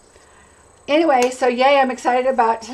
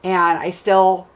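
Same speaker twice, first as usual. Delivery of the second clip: hoarse voice from a cold; sick voice. Real, not acted. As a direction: voice worn down by a cold. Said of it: "sound worse than I am".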